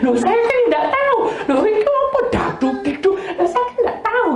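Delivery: high, laughing protest of innocence; high-pitched bewildered laugh-talk; baffled protest. Retold or imitated. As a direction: squeak out that she has no idea, laughing. Her retorts to the doctor, laughing.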